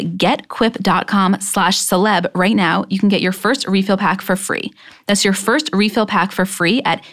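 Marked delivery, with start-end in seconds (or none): 2.3-7.0 upbeat sponsor read, selling the product. Acted. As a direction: pitch it like a podcast ad.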